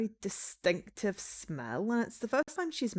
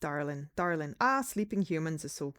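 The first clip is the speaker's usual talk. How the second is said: put-on slipping into a Scottish accent, low; vampire line drifting into Scottish; accidental Scottish accent; 3 semitones lower than usual. Vampire greeting a sleeping human in an accidental Scottish accent. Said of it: "why is it coming out Scottish?".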